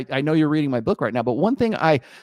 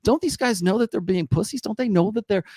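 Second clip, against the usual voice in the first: imitating women; 6 semitones higher than usual. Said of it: "They'll say".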